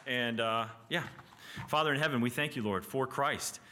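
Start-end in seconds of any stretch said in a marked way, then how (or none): 1.7-3.6 measured, halting spoken prayer. Real, not acted. Teacher closing the class by thanking the Father, praying. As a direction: pray slowly with pauses between phrases. Pray for us.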